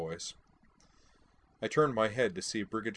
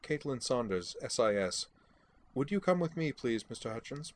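clipped English; 5 semitones higher than usual. Acted. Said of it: "said at a clipped English voice".

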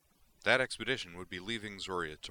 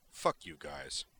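grumbling; 3 semitones lower, slower than usual. Acted. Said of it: "Brejik grumbled".

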